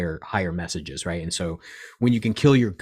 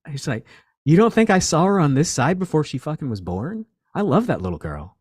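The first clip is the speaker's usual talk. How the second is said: voicing his dad; 6 semitones higher, 5 dB louder than usual. Dead dad voiced in vision.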